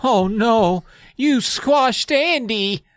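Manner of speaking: Kermit gasping. Retold or imitated. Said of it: "and he says".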